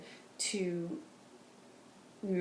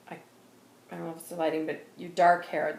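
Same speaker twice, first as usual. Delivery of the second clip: normal talking voice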